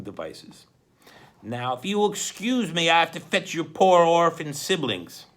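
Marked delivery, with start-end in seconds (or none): 1.4-5.3 louder, falsely polite villain; mock-polite villain. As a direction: sneer with fake courtesy.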